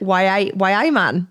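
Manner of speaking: lightly attempted Geordie catchphrase; Geordie accent. Shown as a demonstration. Guest showing host what Geordie sounds like, Geordie accent. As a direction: put on a bit of Geordie. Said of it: "Geordie's like".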